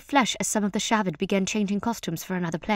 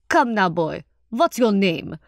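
slow, louder, hearty character voice; rich-voiced welcoming performer; genial troupe leader; 4 dB louder, slower than usual. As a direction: jovially wave off the fuss.

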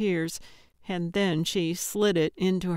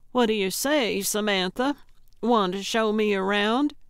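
peppy; 2 semitones higher than usual. Acted. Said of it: "trying to sound peppy".

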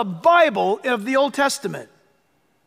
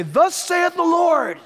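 slow, higher, solemn prophet's declaration; prophet's proclamation; 6 semitones higher, slower than usual. Retold or imitated. Preacher imitates Old Testament prophets declaring God's word, slow and solemn. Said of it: "the Old Testament prophets would say".

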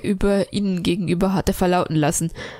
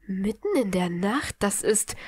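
mildly offended, a touch softer; understated huffy objection; lightly affronted, cut off mid-sentence; piqued; 4 dB quieter than usual. Acted. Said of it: "Draco klang pikiert".

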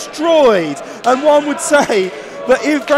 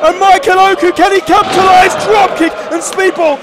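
loud, rising wrestling call; excited commentary; 5 semitones higher, 4 dB louder than usual. Real, not acted. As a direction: sell the high-flying moment. Live commentary on a big dive.

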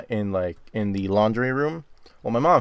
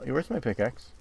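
usual speaking voice

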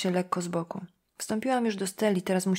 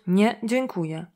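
mock polite refusal; 3 dB louder, slower than usual. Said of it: "powiedz pannie Blackwood".

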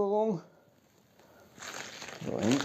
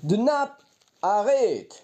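backwards speech; 6 semitones higher, much slower than usual. Shown as a demonstration. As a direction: spell Theraband backwards aloud. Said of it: "Theraband können wir machen".

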